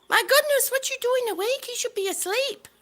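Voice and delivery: high, amazed, mock-stern; surprised scolding. Real, not acted. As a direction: gently chide a late-night viewer. Viewer online very late.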